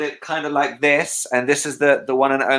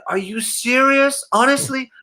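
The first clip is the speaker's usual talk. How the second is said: Michael imitation; 13 semitones higher than usual. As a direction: float it up high, stunned and touched. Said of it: "He said".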